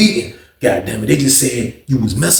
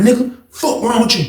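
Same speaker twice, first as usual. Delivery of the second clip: retold challenge; 10 semitones higher than usual. Acted quarrel, attacker on top.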